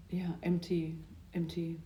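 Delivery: breathy whisper of relief; soft longing whisper. Real, not acted. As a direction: whisper it like you need silence. Craving silence after sighing.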